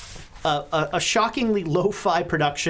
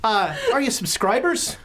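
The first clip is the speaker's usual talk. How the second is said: lightly voiced newspaper boss, a bit higher; Mickey Mahoney; 6 semitones higher than usual. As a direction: ask the visitors with salesman's cheer. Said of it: "How can Mickey Mahoney help you".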